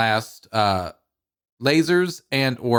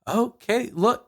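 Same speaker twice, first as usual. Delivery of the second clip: excited; 11 semitones higher, slower than usual. Retold or imitated. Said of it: "I'm just like".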